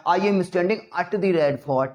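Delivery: everyday Indian-accented English, drawn out. Shown as a demonstration. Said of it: "Already गलत हो रहा है हमारा".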